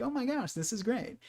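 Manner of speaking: high, thrilled dog voice; dog's delight. Retold or imitated. Owner voices her dog's happy reaction, high and thrilled. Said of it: "and they'll be like".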